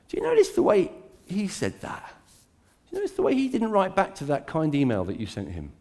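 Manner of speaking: insinuating, sly tempting voice; tempter's whisper. Retold or imitated. Preacher voicing the devil stirring suspicion, sly. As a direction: needle them with suspicion, lightly. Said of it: "what he says is".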